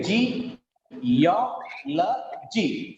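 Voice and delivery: "G, ya, la, G" as separate beats of geology; syllable by syllable. Shown as a demonstration. Teacher counting four syllables, "G, ya, la, G" said separately. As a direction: pause between "G", "ya", "la", "G". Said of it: "Four syllables are there".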